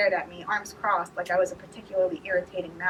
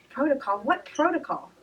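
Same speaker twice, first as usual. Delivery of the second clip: alarmed; 7 semitones higher, 3 dB louder than usual. A narrator's reading. Alarmed question.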